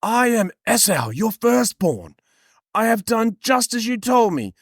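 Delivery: hammed-up impostor son; Jacob posing as Esau.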